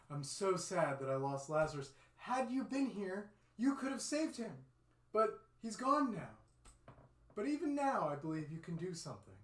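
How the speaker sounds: high, tearful pleading grief; crying Martha. Acted.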